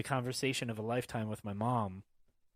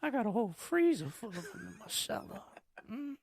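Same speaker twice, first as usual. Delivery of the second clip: gossipy mom; 13 semitones higher than usual. Retold or imitated. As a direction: mimic mom eagerly spreading news, pitched way up. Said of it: "You like popsicles?".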